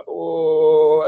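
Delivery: high, held ooh; imitated overwhelmed groan. Recalling the energy building up, overwhelmed ooh. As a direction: mimic being swept up by a rush.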